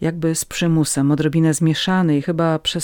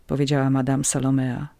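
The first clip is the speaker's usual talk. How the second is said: usual speaking voice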